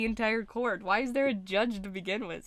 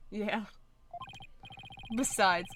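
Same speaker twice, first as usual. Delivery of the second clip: usual speaking voice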